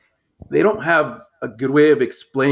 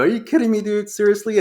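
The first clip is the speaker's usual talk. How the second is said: incredulous; 8 semitones higher than usual. Retold or imitated. Incredulous reaction to Roberts.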